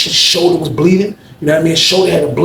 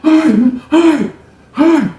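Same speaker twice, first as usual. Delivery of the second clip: laughing surrender; 12 semitones higher, 4 dB louder than usual. Retold or imitated. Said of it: "He was like".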